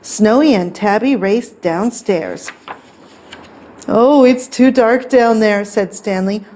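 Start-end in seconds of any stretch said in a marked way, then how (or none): 3.9-5.6 slightly raised worried voice; mildly fearful storybook cat; timid scaredy-cat. A narrator's reading. Frightened cat refuses cellar.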